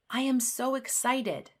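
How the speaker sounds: excited exclamation. Shown as a demonstration. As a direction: burst out with excitement. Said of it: "show happiness and excitement".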